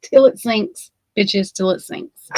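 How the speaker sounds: "till it sinks" dropped slowly with a falling tune; drawn-out punchline. Shown as a demonstration. Telling the viewers, a slow sardonic punchline. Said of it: "Floats his boat".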